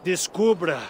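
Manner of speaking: put-on slurred, slow drunken lines. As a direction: sound like the town drunk. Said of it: "do nada ficou com voz de bêbado".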